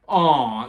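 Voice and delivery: loud, drawn-out mock crowd "aw"; crowd's reaction. Podcaster retelling the crowd's reaction to the jump, loud imitated aw. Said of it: "the crowd went".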